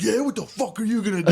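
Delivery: high, heated challenge; mock angry dad. Dad to drunk son who wants a fight, mock angry. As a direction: square up to him, playing it for laughs.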